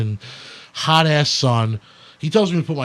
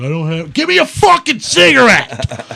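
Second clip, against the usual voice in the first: higher, louder mocking parody voice; mocking the tough guy's demand, sarcastic; mocking imitation; 9 semitones higher, 6 dB louder than usual. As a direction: mimic him back sarcastically. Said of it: "this guy's like".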